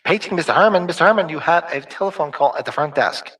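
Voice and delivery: mock front-desk page; paging announcement. Streamer answering a page joke, mock announcer.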